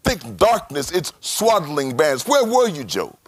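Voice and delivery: booming voice of God questioning Job; God's challenge. Acted. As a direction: thunder it out as God. Preacher voicing God's challenge.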